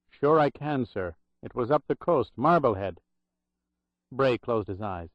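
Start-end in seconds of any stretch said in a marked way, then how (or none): 0.1-3.0 lightly voiced Irish brogue remembering; a hint of old Irish brogue, grave. Old Irish clerk recalling the drowned nurses, light Irish brogue. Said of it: "in a loud Irish brogue".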